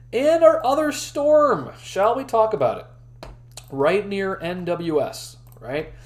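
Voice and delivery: hoarse, strained voice from long streaming; losing voice. Real, not acted. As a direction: voice going hoarse and tired. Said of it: "I'm losing my voice".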